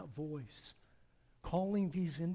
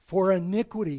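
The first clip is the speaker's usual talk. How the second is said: thundering judgment; 4 semitones higher, 11 dB louder, faster than usual. Acted. God pronouncing judgment on the house of Eli, thundering. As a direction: boom it out like a divine verdict.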